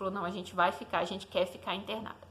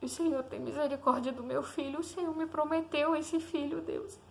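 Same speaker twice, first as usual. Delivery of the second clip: oração emocionada; 4 semitones higher than usual. Retold or imitated. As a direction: beg God with restrained tears in the voice. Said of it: "E eu orei e falei". (súplica emocionada a Deus)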